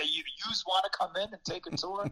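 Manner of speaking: lightly voiced New York accent; a mild New York accent at the door. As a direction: play the Queens neighbor with a New York accent. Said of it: "classic New Yorkers with the New York accent".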